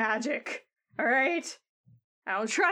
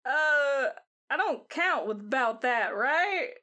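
cowboy Jim; 3 semitones higher than usual. Retold or imitated. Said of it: "He's just like".

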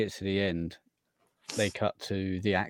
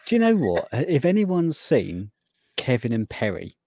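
excited; 9 semitones higher, 7 dB louder than usual. Real, not acted. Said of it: "you sound like Perry".

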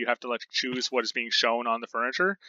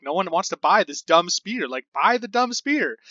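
slow, pitched-up exasperated whine; 5 semitones higher, 4 dB louder, slower than usual. Retold or imitated. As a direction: plead at the customers, drawn out. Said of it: "and I'm like".

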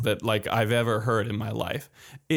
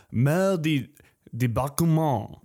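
careful French mal de débarquement; French pronunciation. Shown as a demonstration. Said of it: "You trying to speak French again?".

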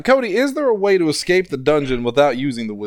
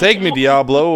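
slightly louder imitated plea; mock yell; 5 dB louder, slower than usual. Recalling a TV line for friends, mock yell. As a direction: call it out as a quoted cry. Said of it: "Marcy was yelling about".

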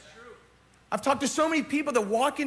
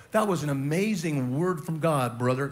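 lower, churchy voice of a longtime member; mild imitation of a church regular; churchy congratulations; 7 semitones lower than usual. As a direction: play the seasoned churchgoer praising the preacher. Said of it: "they usually come up and they go".

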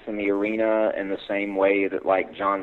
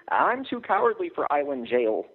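desperate; 7 semitones higher than usual. Acted. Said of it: "I agreed desperately".

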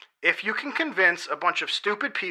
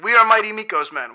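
cheering; 3 semitones higher, 3 dB louder than usual. Acted. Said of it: "has them all cheering".

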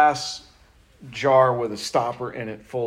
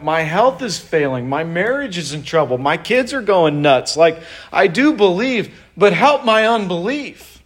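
crying out to God; 3 semitones higher than usual. Pretend. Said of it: "Cry out to God and say".

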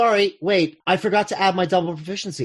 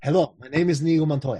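put-on Spanish accent; faster than usual. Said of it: "what's wrong with my accents today".

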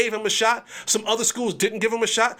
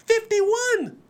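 Fifty-one said much higher with a falling tune; emphatic repeat; 12 semitones higher than usual. Real, not acted. Commentator marvels at the recruit count, high and emphatic. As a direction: pitch Fifty-one way up to stress the number. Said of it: "Brings in fifty-one new students".

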